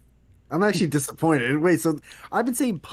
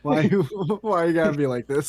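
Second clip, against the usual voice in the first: laughing, whiny high protest; mock whine; 4 semitones higher, 5 dB louder than usual. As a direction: whine it playfully through a laugh. Mock whining at friend.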